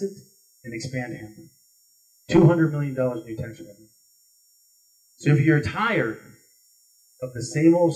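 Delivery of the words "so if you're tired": drawn-out, weighty "So if you're tired", each word held; slow emphatic. Acted. Speaking to the crowd, slow and deliberate. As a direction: lean on "tired" slowly and let it fall. Rhetorical build in stump speech.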